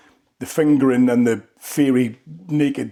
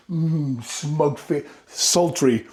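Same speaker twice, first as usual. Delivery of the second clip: attempted sultry; 2 semitones higher, much slower than usual. Shown as a demonstration. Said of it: "does that sultry kind of s".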